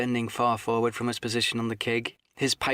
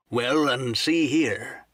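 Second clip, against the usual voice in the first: slow, slightly raised seaman's voice; sea cook cutting in; 4 dB louder, much slower than usual. Acted. Silver adding to the seaman's charge, lightly voiced sea cook. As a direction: cut in as a weighty old sea dog.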